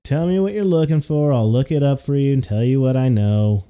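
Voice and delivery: curt, irritated clerk; a hint of annoyance, barely voiced; bored clerk answering the bard, mildly irritated. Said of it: "in a very just irritated voice".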